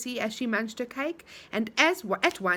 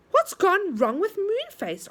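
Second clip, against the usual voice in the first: anxious; 8 semitones higher, 4 dB louder, slower than usual. A narrator's reading. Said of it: "asked Silky anxiously".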